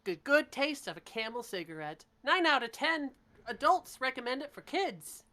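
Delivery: put-on upbeat old-time cigarette pitch; chipper 1950s ad. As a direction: sell it like a vintage commercial. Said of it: "presenting it in a commercial".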